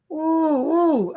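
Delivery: winded, catching breath; puffing after rushing around. Real, not acted. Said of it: "I'm out of breath".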